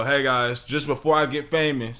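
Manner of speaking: talking while crunching Skittles; crunching candy. Real, not acted. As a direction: mouth full of crunchy candy. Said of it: "sorry for the crunch in the ear".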